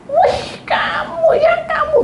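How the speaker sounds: very high, slow squealing greeting; excited friend. Retold or imitated. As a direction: squeal with delight at an old friend. (teman menyapa dengan girang)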